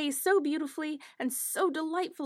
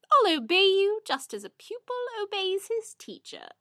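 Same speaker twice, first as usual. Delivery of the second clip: wolf promising obedience; 8 semitones higher, 4 dB louder than usual. Acted. Wolf voiced in fairy tale.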